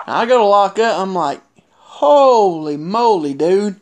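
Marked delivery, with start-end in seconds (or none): 1.7-3.8 drawn-out, slow holy moly; stunned reaction. Retold or imitated. Wrestler retelling his shock at a partner's state, stunned. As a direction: stretch it out in disbelief.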